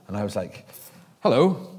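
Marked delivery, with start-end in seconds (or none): 1.2-1.7 a light hint of a menacing Scottish accent. Police officer calling him back, in a mild Scottish accent. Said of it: "This deep Scottish, menacing accent".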